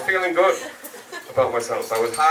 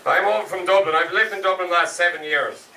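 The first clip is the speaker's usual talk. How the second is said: put-on Dutch accent; 2 semitones higher than usual. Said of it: "my best attempt at a Dutch accent".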